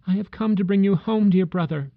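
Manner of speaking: put-on high, bright child's voice, joyful and eager; a small sister calling her brother home; little girl. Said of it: "said the child".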